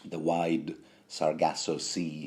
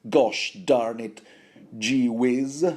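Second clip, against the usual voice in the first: high-pitched, mock-scolding mother; a mother reproaching her boy with tame swearing; Catelyn; 6 semitones higher than usual. Podcaster voicing mother reminding son of his pledge, mock scolding. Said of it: "The sort of swearing that mothers would".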